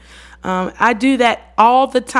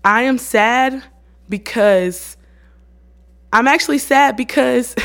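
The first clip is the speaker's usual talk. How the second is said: plainly stated feeling, pitched higher; slightly raised, deliberate confession; simple, childlike admission; 4 semitones higher, 3 dB louder than usual. Acted. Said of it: "speaking my emotions very, um, simple and childlike".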